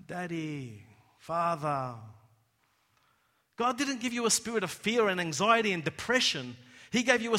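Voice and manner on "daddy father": tender cry. Acted. Quoted cry, dropped soft.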